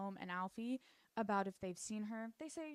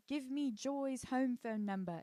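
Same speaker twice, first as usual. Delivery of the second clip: higher, slower mock-British demand; British accent; 4 semitones higher, 4 dB louder, slower than usual. Patricia demanding the number from Victor, British accent. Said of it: "I keep doing that accent".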